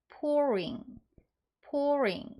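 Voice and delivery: pouring high, then falling, clearly separated; model pronunciation of pouring. Shown as a demonstration. Teacher modelling the ing form for learners, pouring high then falling. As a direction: say pouring carefully twice with a pause between. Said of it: "이렇게 발음하면 됩니다".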